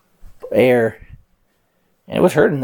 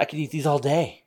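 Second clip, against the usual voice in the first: bully voice; 4 semitones higher, 6 dB quieter than usual. Acted. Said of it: "he's like".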